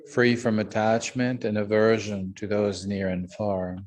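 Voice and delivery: measured, even-toned Buddhist recitation; prayer recitation. Real, not acted. Teacher leading the group in refuge prayers, measured recitation. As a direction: recite steadily in evenly phrased lines, little rise or fall.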